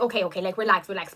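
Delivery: low, calming mom voice; reassuring mom. Retold or imitated. Mom calming her on phone.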